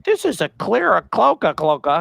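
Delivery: high-pitched, sing-out mock naming of a breed; mock breed expert. Acted quote of cat experts.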